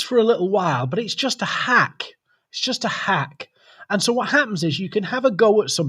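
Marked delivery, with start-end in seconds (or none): 2.5-3.5 whispered aside. Shown as a demonstration. Host confides his point to viewers, whispered. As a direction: whisper it like a secret.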